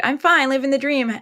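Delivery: high, bright fake cheer; mock polite answer. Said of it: "giving the polite".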